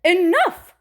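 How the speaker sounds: loud, high sharp enough; firm enough. A narrator's reading. Mother stopping Ada's questions, sharp enough. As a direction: cut her off hard. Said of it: "said her mother".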